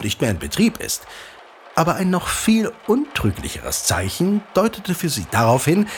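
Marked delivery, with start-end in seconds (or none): 1.7-5.9 unhurried legend-telling voice, drawing the listener in; storyteller narration. Acted. Father telling his son the local legend, storyteller narration. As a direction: tell it like an old tale by the fire.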